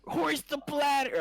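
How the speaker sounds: mock pirate captain. Joining the pirate game, mock captain. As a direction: play the captain on deck.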